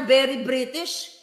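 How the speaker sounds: slow, lightly put-on British accent; mock British. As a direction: mockingly say very British slowly. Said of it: "at sinasabi na ang anak niya". (mabagal at panggagaya na British accent)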